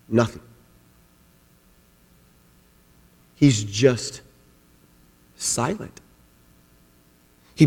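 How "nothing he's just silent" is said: hushed drop. Real, not acted. Preacher drops to a hush.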